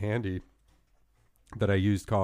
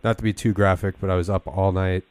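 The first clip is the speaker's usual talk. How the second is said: fake sick voice. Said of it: "my fake sick voice".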